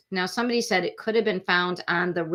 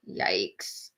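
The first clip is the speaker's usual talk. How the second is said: whispered yikes; 12 semitones lower, 7 dB quieter than usual. Real, not acted. Reacting to injury story.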